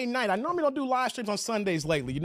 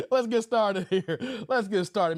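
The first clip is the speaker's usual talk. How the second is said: laughing; slower than usual. Real, not acted. Laughing while continuing.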